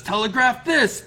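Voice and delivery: a high, loud shout as he swings; battle yell. Acted. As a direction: yell it as the blow lands. Fighter yells while attacking.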